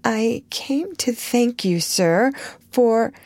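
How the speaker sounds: slow, shy, slightly trembling; small quaver. Acted. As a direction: thank him with a small tremble. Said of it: "with only a small quaver in her voice".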